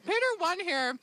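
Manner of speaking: talking with a mouthful of pie; cheeks stuffed full. Real, not acted. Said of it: "My mouth is full of pie".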